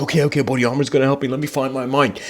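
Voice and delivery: fast, hurried searching; frantic. Retold or imitated. Man hunting for his mind, fast and frantic. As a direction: rush it like a panicked seeker.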